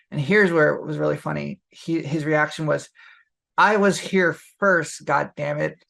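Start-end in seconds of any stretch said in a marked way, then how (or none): 3.5-5.8 mock indignant outburst. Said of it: "a hilarious thing to say".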